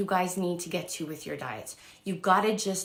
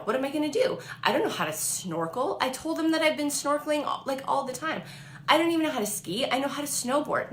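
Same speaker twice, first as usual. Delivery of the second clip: higher, rising panicked rant; mock panic; 5 semitones higher than usual. Home after the date, retold higher panic. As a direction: spiral into comic panic.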